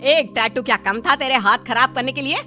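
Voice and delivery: mildly cross mother-in-law; exasperated telling-off; angry scolding. Acted. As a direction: scold the daughter-in-law with understated anger. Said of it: "गुस्सा करने लगती".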